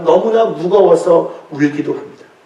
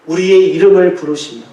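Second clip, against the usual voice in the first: ordinary talk, nothing marked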